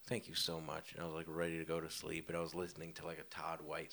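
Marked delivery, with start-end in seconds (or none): 0.1-0.9 hushed thank-you breathed to God; whispered prayer. Retold or imitated. Lying in bed whispering thanks to God, a hushed prayer. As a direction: whisper it like a private bedtime prayer.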